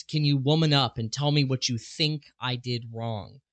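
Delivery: woman leaned on in a mocking quote; stress on woman. Quoting the mom's text, stress on woman. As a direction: lean hard on the word woman, with a sneer. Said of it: "I really wanna emphasize that word there".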